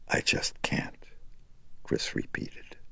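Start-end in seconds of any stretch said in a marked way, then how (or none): 0.1-1.1 lifeless husky whisper; husky dead whisper. A narrator's reading. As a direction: breathe it out, dead and empty. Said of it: "in a husky, dead whisper".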